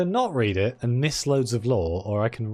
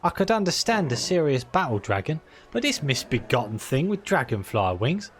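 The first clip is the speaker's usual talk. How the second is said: put-on Cockney accent; 3 semitones higher than usual. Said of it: "I just decided to go full Cockney with that guy".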